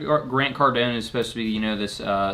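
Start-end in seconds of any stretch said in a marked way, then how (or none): 0.0-1.0 a little twang on the name; slight twang. Real, not acted. Co-host introducing the sales guru, slight twang. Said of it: "a little twang in your voice".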